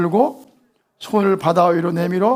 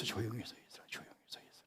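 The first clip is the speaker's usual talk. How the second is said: soft whispered stand still; preacher whispers be still; 7 semitones lower, 23 dB quieter than usual. Shown as a demonstration. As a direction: hush the room as you say it. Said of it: "stand still 이렇게 돼 있어요".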